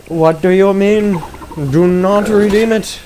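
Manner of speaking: yelling at the game screen; outraged. Real, not acted. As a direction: forbid it loudly.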